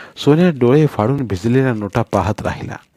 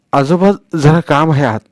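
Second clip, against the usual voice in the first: coaxing; 5 semitones higher, 5 dB louder than usual. Acted. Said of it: "लाडीगोडी लावत सोन्या म्हणताच".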